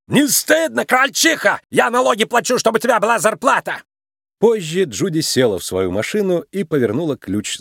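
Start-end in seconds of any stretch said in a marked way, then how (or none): 0.1-3.8 high, indignant yell fading down; a furious driver scolding; angry driver shouting. A narrator's reading. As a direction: taxpayer ranting at a meter maid. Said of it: "Злой водитель закричал".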